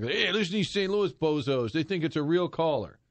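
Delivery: mocking out-of-town caller. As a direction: sneer at the locals in a put-on voice.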